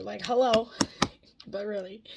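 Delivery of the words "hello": pastor voice. Pretend. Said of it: "gonna start talking like the pastor".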